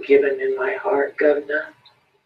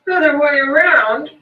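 higher, uneasy "Other way around?"; the beggar croaks it, rattled; 10 semitones higher than usual. A narrator's reading. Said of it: "he croaked uneasily".

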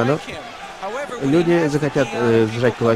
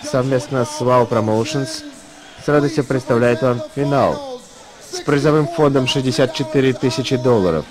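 ring announcer. Real, not acted.

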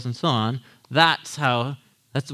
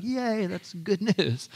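mock cheer; 4 semitones higher, 6 dB quieter, slower than usual. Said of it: "And we'd be like".

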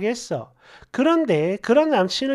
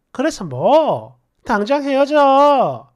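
slow, curt dismissal; blunt put-down; slower than usual. Acted. Friend shaming someone upset about a boyfriend, blunt put-down. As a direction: dismiss the worry slowly and bluntly. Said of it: "대놓고 무안을 줘요".

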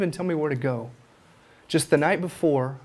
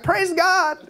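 imitating a praise; 13 semitones higher, 3 dB louder than usual. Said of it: "She was like".

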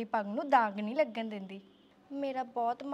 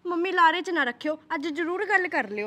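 urgent plea, louder and higher; loud pleading; 5 semitones higher, 10 dB louder than usual. Acted. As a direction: beg mom loudly not to keep stalling. ਧੀ ਮਾਂ ਨੂੰ ਤਰਲਾ ਕਰਦੀ. (ਉੱਚੀ ਆਵਾਜ਼ 'ਚ ਤਰਲਾ)

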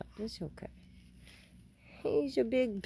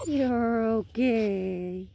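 slow, drawn-out soothing to the dog; calm him down, stretching the words; reassuring; 6 dB louder, much slower than usual. Real, not acted. Owner slowly soothing her crying dog.

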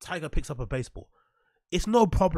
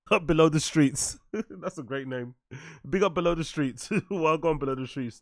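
hyped shoutout. Real, not acted. Reading a chatter's funny name.

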